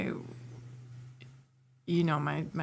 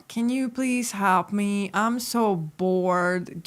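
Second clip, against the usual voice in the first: put-on slow, drawn-out childlike begging; retold bored plea; 3 semitones higher, 3 dB louder, much slower than usual. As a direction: act out pleading with a sister. Retold plea to her sister.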